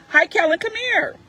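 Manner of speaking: very high, sing-song greeting; coaxing mommy voice. Real, not acted. Mother calls her son over to the camera, high sing-song.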